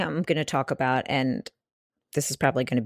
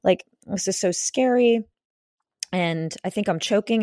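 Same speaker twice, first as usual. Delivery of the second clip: panicked; 5 semitones higher than usual. Retold or imitated. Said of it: "I was freaking out".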